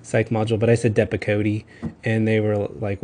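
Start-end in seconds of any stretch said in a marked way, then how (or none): 0.9-1.6 Depakote said the Texan way; Texas accent. Retold or imitated. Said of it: "always make fun of me".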